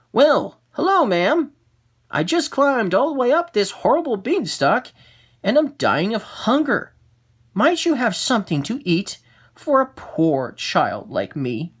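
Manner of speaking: put-on high, wheedling child voice; sweet pleading boy. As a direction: lay it on thick, a hungry little boy. Jack begs the giant's wife.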